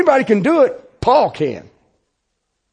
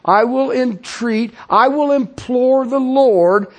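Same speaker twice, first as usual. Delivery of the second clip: slow, louder, rising declaration; resolute vow; 5 semitones higher, 3 dB louder, slower than usual. Acted. Preacher voicing the believer's vow to pray for the deceived, slow and loud. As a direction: stretch each I will like a solemn vow. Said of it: "The same thing the Apostle Paul did".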